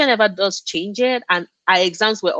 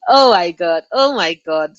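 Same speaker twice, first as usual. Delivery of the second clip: shocked reaction; 5 dB louder than usual. Real, not acted. Reacting to chat comment.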